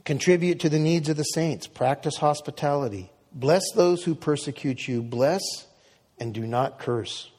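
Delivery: measured, deliberate Bible reading; scripture reading. Acted. Pastor reading Romans to congregation, measured and solemn. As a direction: read the passage with steady weight. Reads scripture passage aloud.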